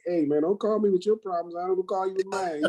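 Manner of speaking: playfully telling someone off, not in earnest; facetious. Retold or imitated. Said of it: "and I say that facetiously".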